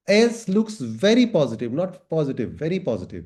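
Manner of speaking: "very" drawn out and punched; emphatic "very", set against plain "positive"; stress on very. Retold or imitated. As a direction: read it slowly, leaning hard on "very". Corrects positive to very positive.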